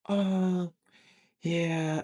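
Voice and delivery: high-pitched, drawn-out hesitation; imitated young lady. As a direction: answer high and reluctant as her.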